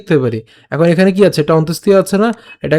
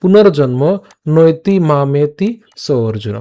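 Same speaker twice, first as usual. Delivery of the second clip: slow, measured shloka line; verse recitation demo; slower than usual. Shown as a demonstration. Teacher finishes the verse for learners, slow recitation. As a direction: recite slowly, phrase by phrase. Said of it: "এরপর".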